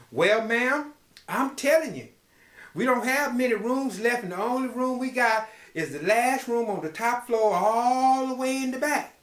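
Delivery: a hint of a worried innkeeper; hotel owner. Owner warns the lady.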